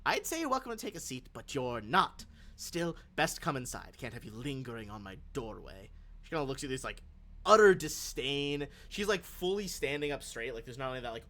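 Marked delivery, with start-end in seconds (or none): 0.0-5.9 put-on crisp old lady. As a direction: speak plainly and pointedly, old and proud. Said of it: "states this very clearly".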